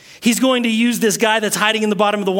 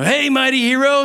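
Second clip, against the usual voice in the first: mock teasing; 5 semitones higher than usual. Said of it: "mocking me".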